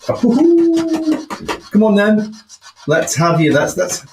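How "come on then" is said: drawn-out call. Real, not acted. Calling out to the spirit.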